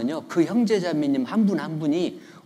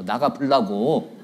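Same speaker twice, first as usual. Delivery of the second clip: Jeolla dialect; 2 semitones lower, slower than usual. Retold or imitated. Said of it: "전라도 말로".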